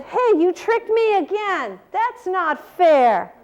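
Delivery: a touch of storybook outrage from a cheated bear; mildly indignant bear. Acted. Tricked bear protests in children's story.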